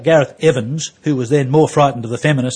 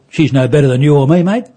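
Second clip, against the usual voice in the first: dead serious cabbie; 7 dB louder than usual. Retold or imitated. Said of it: "in all seriousness".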